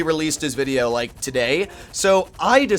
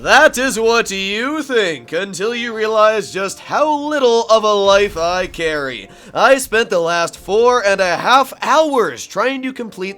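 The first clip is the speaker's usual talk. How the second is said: mad scientist; 4 semitones higher, 6 dB louder, slower than usual. Acted. Villain monologue continues.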